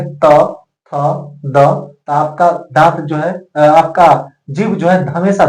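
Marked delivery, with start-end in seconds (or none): 0.0-0.9 त, थ spaced out, tongue on the teeth; letter-by-letter demo. Shown as a demonstration. Teacher repeats त, थ to show the tongue on the teeth. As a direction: say त and थ apart, slowly. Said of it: "जैसे आप बोल करके देखेंगे".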